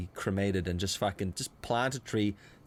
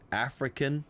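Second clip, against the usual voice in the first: African accent; 4 semitones higher than usual. Shown as a demonstration. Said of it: "are you gonna go".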